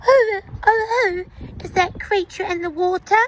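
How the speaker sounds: wide-eyed storybook wonder, high; startled question. A narrator's reading. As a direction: gasp at a stranger in the water. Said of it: "he asked them".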